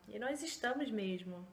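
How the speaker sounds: usual speaking voice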